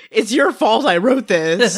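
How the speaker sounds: mock accusing. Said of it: "And he's like".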